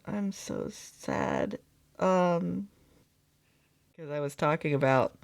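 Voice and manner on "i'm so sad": much lower, slow, drawn-out mock lament; a hammed-up, slowed, deep "I'm so sad". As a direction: drop the voice way down and drag out "I'm so sad".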